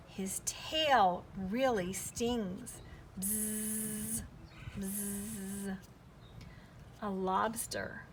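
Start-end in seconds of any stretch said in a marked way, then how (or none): 0.1-5.8 warning whisper. Acted. Warning about the stingray's sting.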